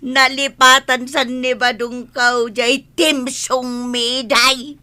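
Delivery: sobbing, last words drawn out slowly; tearful lament. Acted. Wife says Badong forgot their theme song, tearful. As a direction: weep over being forgotten.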